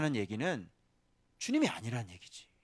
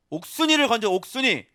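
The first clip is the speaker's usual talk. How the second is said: calling the name out loud, high and stretched with a laugh; a laughing, drawn-out cry of her name; joyful shout; 17 dB louder, slower than usual. Acted. Preacher shouting a rescued woman's name with joy.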